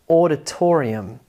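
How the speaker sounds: auditorium with TOR strongest, AU second; primary and secondary stress. Shown as a demonstration. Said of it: "Primary stress is actually on the third syllable".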